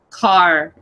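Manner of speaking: "car" with a long, drawn-out vowel; elongated vowel. Shown as a demonstration. Podcast guest shows a changed East Coast vowel, "car" elongated. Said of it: "so it's elongated".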